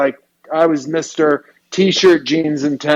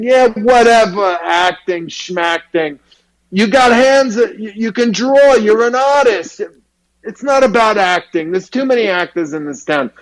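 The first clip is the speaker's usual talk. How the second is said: Harvey Fierstein; 5 semitones higher than usual. Retold or imitated. Head of the school brushing off acting, high and dismissive. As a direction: wave away acting. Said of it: "he sounded like Harvey Fierstein".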